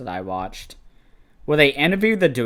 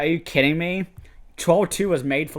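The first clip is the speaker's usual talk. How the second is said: higher-pitched disbelief; incredulous retort; 5 semitones higher than usual. Retold or imitated. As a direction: throw it back as a mock protest. Retelling incredulous reply to director.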